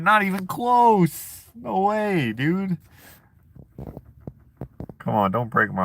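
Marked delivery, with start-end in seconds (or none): 0.0-2.8 indignant. Pretend. Mock protest at chat.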